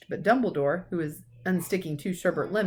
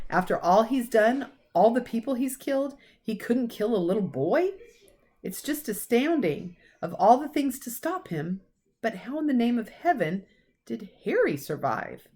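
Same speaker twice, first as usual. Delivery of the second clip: a hint of an astonished old professor, higher; McGonagall; 6 semitones higher than usual. Professor amazed that Harry survived, mildly higher. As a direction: marvel at it, lightly voiced.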